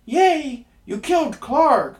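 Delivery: very high, loud squeaky goblin cheer; gleeful goblin. A narrator's reading. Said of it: "began to clap and cried".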